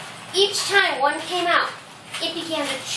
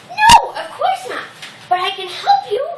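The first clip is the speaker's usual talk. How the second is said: high-voiced mouse pleading its case; little mouse; 10 semitones higher, 7 dB louder than usual. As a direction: pipe up high as a tiny mouse. Mouse character answers the lion.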